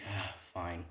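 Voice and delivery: soft, grudging mock surrender; resigned sigh. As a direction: sigh it out reluctantly, half-whispered. Character gives in reluctantly.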